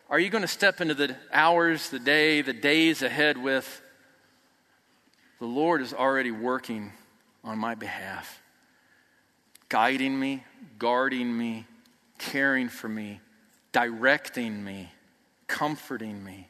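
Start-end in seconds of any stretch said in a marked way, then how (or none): 5.4-16.5 calm trust. Shown as a demonstration. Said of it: "attitude of".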